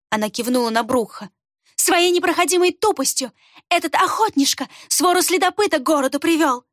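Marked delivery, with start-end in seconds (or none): 1.8-6.6 high, contemptuous rant; furious rant. A narrator's reading. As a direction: rail at the fool. Рукс rails at Брух. (злая тирада, высоко)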